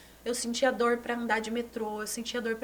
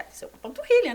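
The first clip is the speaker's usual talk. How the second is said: laughing; 10 semitones higher, 8 dB louder, faster than usual. Retold or imitated. Laughing off the doctor's worry.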